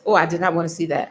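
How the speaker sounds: yawning while talking. Real, not acted. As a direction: talk through a yawn. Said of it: "I'm sorry I'm yawning".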